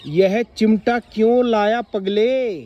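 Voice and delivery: slow, loud surprised question on क्यों; a grandmother amazed at the tongs. Shown as a demonstration. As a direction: ask in astonishment, stretching it out. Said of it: "हैरानी से ये बात बोली गई है".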